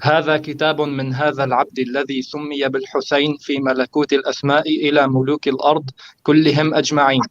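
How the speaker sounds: quick, even reading of Arabic text; fast Arabic recitation. Shown as a demonstration. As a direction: rattle off the Arabic quote. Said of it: "and this is what it says".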